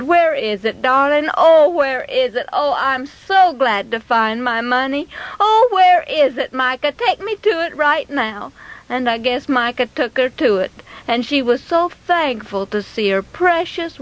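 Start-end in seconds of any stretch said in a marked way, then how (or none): 0.0-8.5 mildly eager, doting mother; acted glad, loving urgency; affectionate delight. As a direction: coax your darling happily. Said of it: "hugged him and kissed him and said".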